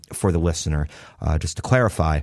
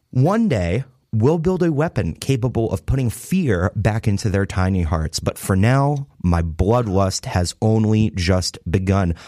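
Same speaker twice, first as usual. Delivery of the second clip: mock villain speech. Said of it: "Very passionate".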